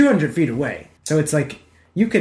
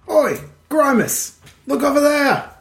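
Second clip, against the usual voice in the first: ogre voice; 11 semitones higher, slower than usual. Acted. Ogre calls to his brother about the sheep, high and drawn out. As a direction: bellow it like a dim ogre pointing.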